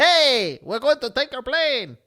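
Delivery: high, squeaky mock voice of a tiny man; mock tiny hijacker. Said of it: "just hopping around like".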